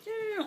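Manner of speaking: high blow-dryer hum; imitated dryer hum.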